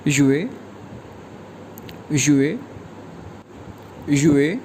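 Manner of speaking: युए dropped sharply; falling fourth tone. Shown as a demonstration. Teacher repeating युए for learners, falling. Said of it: "ये pronounce करेंगे".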